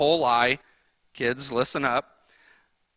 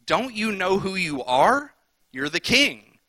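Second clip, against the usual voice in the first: gets after him; 4 semitones higher than usual. Retold or imitated. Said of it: "she actually kind of gets after him".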